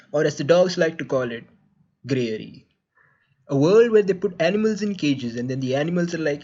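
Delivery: put-on deep sponsor-read voice. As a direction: drop low for the sponsor message. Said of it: "making this in my deep voice".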